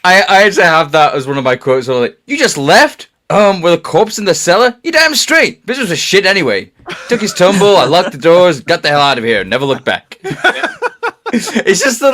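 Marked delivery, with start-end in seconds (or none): 2.3-10.2 character voice. Retold or imitated. Quoting show dialogue.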